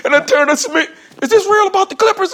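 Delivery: high incredulous question through laughter; can't believe it's over clippers; laughing disbelief. Retold or imitated. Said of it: "I'm like".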